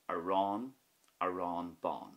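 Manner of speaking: "aráin, aráin bán" with long á endings; stressed a fada. Shown as a demonstration. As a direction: dwell on each á in "aráin bán". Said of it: "you hear that more so".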